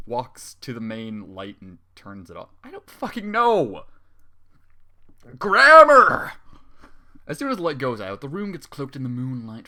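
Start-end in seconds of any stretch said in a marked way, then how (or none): 2.6-3.8 exasperated outburst. Real, not acted. Exasperated at bad grammar. 5.4-6.3 high, loud cry of despair; exasperated yell. Real, not acted. Reader shouting at the story's bad grammar, exasperated yell.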